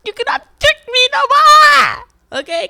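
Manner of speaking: high and loud, taunting them; shouted mock challenge; loud mocking call-out. Real, not acted. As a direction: call them out, almost yelling.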